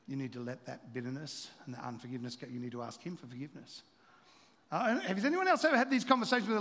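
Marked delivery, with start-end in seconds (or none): 0.1-3.8 gentle inner voice. Retold or imitated. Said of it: "Jesus is going".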